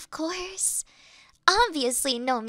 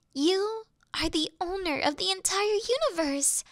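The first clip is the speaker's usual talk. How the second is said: usual speaking voice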